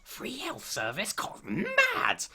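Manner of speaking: high, mock-shocked disbelief; mock astonishment. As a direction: gasp at it like it's unheard of. Mock shock at free healthcare.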